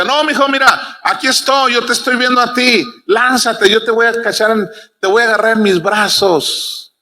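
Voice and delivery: pleading father, lightly acted; lightly voiced urging father. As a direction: imitate a papá coaxing his child to jump. Father urges doubting child to jump.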